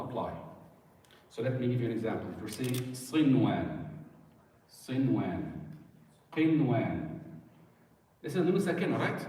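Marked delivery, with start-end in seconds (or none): 2.9-5.4 "sinwan" with the n said plainly before the w; no ghunna. Shown as a demonstration. Teacher giving the exception within one word, clear nun in "sinwan". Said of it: "No, you don't". 6.3-7.2 "qinwan" with a clear n before the w; no ghunna. Shown as a demonstration. Teacher giving the exception within one word, clear nun in "qinwan". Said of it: "No, you don't".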